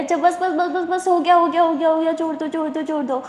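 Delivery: high pleading "enough, enough", fading out; a voiced girlfriend urgently begging; begging to stop. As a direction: plead with her to let go. Jaz begs Sara to stop biting.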